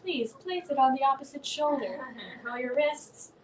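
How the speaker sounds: calm, deliberate coach imitation; mock meditation guide. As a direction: coach them as if leading meditation. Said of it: "It's like we're doing meditation here".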